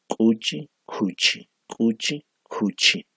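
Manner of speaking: cuchi repeated, alternating plain and ejective k; minimal set drill. Shown as a demonstration. Teacher modelling Aymara consonant contrasts, careful drill. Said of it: "Cari, mentira o mentiroso".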